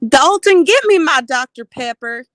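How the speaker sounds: calling out. Acted. Parody impression, calling out.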